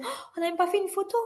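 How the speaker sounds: high, fast mock dismay; retold gasp of regret; dismayed cry. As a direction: blurt it out, high and quick. Retelling her own dismayed remark.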